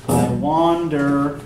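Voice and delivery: wander leaned on, slow; stress on wander. Shown as a demonstration. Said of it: "What about I? Do we stress I".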